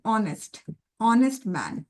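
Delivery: ऑनेस्ट with no h, starting on open ऑ; silent h. Shown as a demonstration. Teacher to students, showing ऑनेस्ट said with a silent h. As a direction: say ऑनेस्ट as aw-nest, the h dropped. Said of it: "हॉनेस्ट तो नहीं बोल रही हूँ ना, ऑ बोल रही हूँ".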